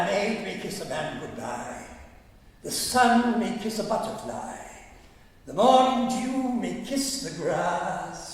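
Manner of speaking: lightly mock-theatrical verse recitation; little poem recital. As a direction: recite line by line with deliberate pauses. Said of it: "she did a little poem".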